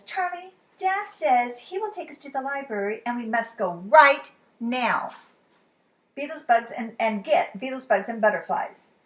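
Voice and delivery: a small sister begging her brother to hurry; Lola voice. Acted. Lola begs Charlie.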